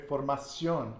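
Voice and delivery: "formación" stressed on its final CIÓN; stress on the end. Shown as a demonstration. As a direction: lean on the last syllable of "formación". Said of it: "put the stress on the end".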